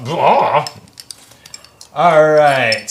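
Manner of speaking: ordinary talk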